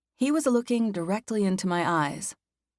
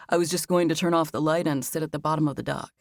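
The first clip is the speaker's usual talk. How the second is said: lightly lowered calm male voice; Max's voice; 3 semitones lower than usual. Acted. Narrator voices Max.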